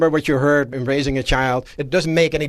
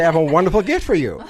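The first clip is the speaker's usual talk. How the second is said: laughing regift; 2 semitones higher, 4 dB louder, faster than usual. Retold or imitated. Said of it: "turn around to the other neighbor and say".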